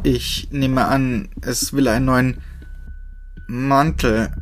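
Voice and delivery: through clenched teeth. Acted. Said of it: "durch meine zusammengepressten Zähne".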